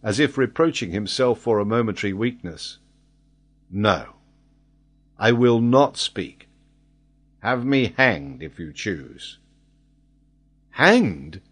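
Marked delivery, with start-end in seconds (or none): 3.7-9.4 vehement. Acted. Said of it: "Then he added with vehemence". 10.7-11.4 a louder burst of anger; louder, offended exclaim; angry exclamation. Acted. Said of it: "exclaimed Glenarvan, overcome by a sudden feeling of anger".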